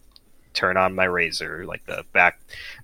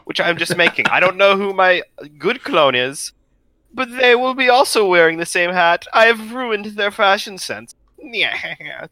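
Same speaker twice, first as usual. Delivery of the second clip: evil villain voice; 10 semitones higher, 4 dB louder than usual. Pretend. Joins in as the evil clone.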